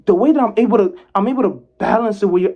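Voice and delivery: loud and high to show energy; sounds like screaming. Real, not acted. Talking to viewers while sounding like screaming. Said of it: "even though it sounds like I'm screaming".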